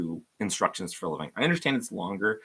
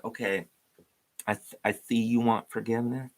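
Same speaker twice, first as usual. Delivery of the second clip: a hint of a Southern scold laying out terms; mild mock Southern voice; Southern accent. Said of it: "I don't know why I'm Southern here".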